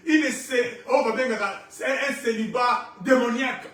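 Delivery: emphatic, rhythmic declaration; forceful preaching. Real, not acted. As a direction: drive each phrase home to the congregation.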